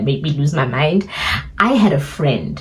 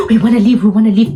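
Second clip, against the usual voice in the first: mock shout; 4 semitones higher, 5 dB louder, faster than usual. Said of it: "are shouting at me".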